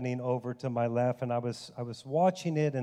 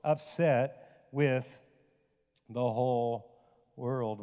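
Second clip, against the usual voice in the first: inner voice questioning; slower than usual. Retold or imitated. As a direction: ask yourself gently why. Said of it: "it dawned on me".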